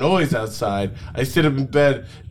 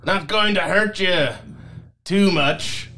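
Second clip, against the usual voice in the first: light Shrek voice; 3 semitones higher than usual. Acted. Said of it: "he says".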